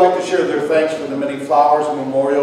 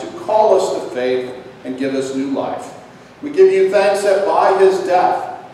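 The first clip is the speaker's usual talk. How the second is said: prayer. Acted. Closing prayer.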